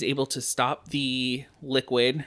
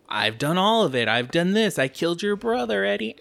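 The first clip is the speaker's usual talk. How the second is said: villain monologue; 6 semitones higher than usual. Retold or imitated. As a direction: gloat like a cartoon villain, rising high. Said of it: "that's a good impression".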